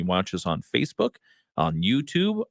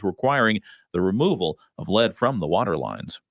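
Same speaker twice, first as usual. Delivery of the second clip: measured radio newsroom delivery; news read. Real, not acted. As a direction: read it as a local news anchor. Reads the local news.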